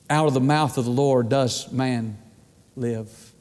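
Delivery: measured Bible reading, pausing between phrases; scripture reading. Acted. Preacher reading Deuteronomy to the congregation, measured scripture reading.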